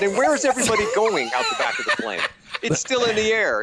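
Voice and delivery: mock-incredulous, arguing the scene's logic; exasperated. Retelling to the director how he objected, incredulous.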